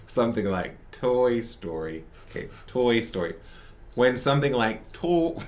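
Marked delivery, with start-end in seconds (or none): 5.0-5.4 laughing. Real, not acted. Laughing through gushing recommendation.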